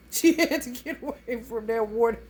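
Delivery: laughing out the punchline as she says it; laughing through it. Real, not acted. Laughing while telling about her mother's fear of water. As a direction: let the laugh break into the words.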